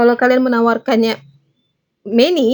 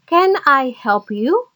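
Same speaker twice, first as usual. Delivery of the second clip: slow, careful teacher model of the phrase; 3 semitones higher, much slower than usual. Shown as a demonstration. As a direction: say it slowly for learners to copy. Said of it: "kalian bisa menggunakan kata-kata". (diucapkan pelan sebagai contoh)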